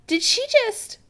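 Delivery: high, understated groan of disbelief. Acted. Chris about his mother disappearing, groaning. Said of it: "Chris groans".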